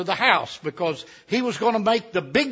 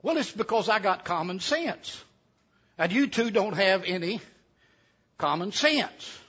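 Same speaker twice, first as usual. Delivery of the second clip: understated, unhurried answer with long pauses; calm reply. Acted. Lazing cousin explains himself to the angry digger, calmly. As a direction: answer evenly, spacing out the phrases. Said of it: "calmly said".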